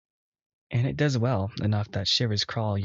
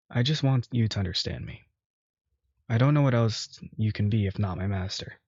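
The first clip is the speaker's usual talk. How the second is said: a hint of a devoted bull pleading; pleading servant. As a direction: beg him gently to understand you. Voicing Asterion pleading.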